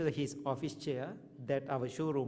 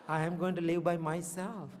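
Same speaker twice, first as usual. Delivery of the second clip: higher, laughing through the words; 4 semitones higher than usual. Real, not acted. Telling the congregation he feared living alone, laughing. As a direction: laugh while admitting the fear. Laughs at his own fear.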